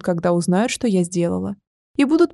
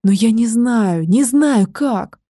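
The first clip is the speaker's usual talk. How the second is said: sobbing reply; 2 semitones higher, 3 dB louder, much slower than usual. Acted. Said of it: "всхлипнула в ответ и снова задрожала".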